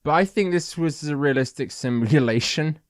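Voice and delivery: slurry tipsy talk. Real, not acted. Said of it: "I'm really drunk right now".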